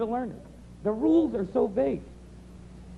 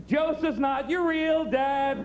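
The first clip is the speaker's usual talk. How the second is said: playground taunt; 3 semitones higher, much slower than usual. Retold or imitated. Kids taunting young Jesus.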